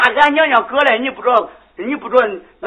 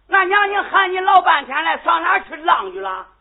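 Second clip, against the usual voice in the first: scolding shout; 5 semitones higher than usual. Acted. Mother scolding sleepy daughter.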